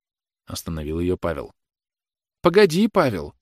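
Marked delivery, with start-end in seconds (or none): 2.4-3.3 high-pitched, agitated call; mother's cry. A narrator's reading. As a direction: brush off your son's attempt to calm you. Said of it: "крикнула мать, порываясь к столу".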